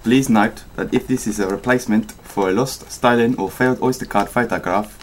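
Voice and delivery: amateur South African accent; South African drifting towards Australian. Shown as a demonstration. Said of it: "say any whole paragraph in a South African accent".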